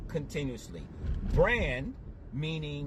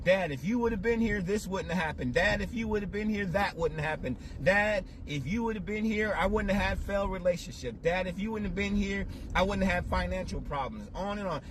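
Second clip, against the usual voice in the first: fast, higher, pleading reproach to absent father; blaming Dad; 3 semitones higher, faster than usual. Retold or imitated. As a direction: rattle off the accusations, voice raised and pressing. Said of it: "I was like".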